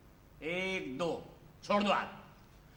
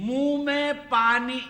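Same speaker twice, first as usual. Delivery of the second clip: water held in mouth; 5 semitones higher, 4 dB louder, slower than usual. Shown as a demonstration. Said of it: "देखो, मैं इस्तेमाल करता हूँ".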